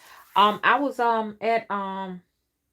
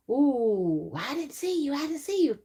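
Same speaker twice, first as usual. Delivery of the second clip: imitating husband; 8 semitones higher than usual.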